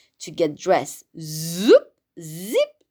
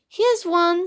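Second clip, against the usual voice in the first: excited; 8 semitones higher than usual. Acted. Matthew finds a tree.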